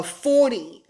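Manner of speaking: forty with the t softened to a d, "for-dee"; American pronunciation. Shown as a demonstration. Puzzled by American spelling sounds, forty as "for-dee". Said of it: "I don't hear the T Y".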